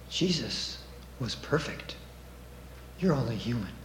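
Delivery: very soft, low, insinuating aside; devil's whisper. Acted. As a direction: drop right down, like the devil at someone's ear. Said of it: "He whispers in our ear".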